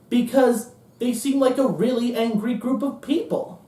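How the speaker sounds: a nervy junior analyst warning the room; nervous analyst. Retold or imitated. Junior analyst warning gentlemen about angry voters, nervous.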